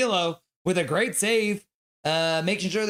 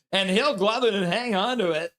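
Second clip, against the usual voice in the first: 1 mock excited; 4 semitones higher than usual. Shown as a demonstration. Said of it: "I have to pretend like it was the greatest save".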